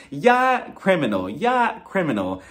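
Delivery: seesaw the pitch between the two options; mock weighing up. Weighing two options against each other.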